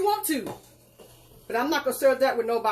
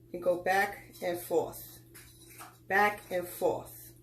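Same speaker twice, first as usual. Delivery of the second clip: slow demo; 5 semitones lower, 5 dB quieter, slower than usual. Shown as a demonstration. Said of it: "shows the whisk motion".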